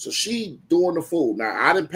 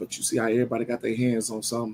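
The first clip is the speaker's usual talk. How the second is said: calm, non-yelling tone, lower and quieter; 5 semitones lower, 5 dB quieter than usual. Retelling a talk with his hungry daughter: imitating his own calm tone. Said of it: "Here's the tone I say it to her in".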